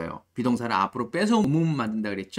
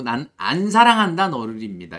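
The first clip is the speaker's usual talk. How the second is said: 난 안 사랑한다 너를 said louder as the correct reading; emphatic correct version; 2 semitones lower, 6 dB louder than usual. Shown as a demonstration. Teacher stresses the correct translation, loudly. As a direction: lean on the right translation. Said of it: "이렇게 해석을 해주시면 좋습니다".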